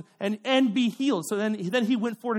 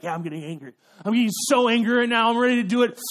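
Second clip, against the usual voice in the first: mock angry; 2 semitones higher, 5 dB louder, faster than usual. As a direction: work yourself up to a loud, hammed-up anger. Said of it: "you're getting angry".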